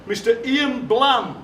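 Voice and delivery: slow, drawn-out announcer build-up to the name; a lightly played head teacher presenting the star guest; slow mock fanfare introduction; grand announcement.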